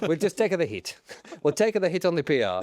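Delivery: put-on comic Italian accent; Stefano Domenicali. Boss introducing himself to the public, Italian accent. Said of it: "As Italians".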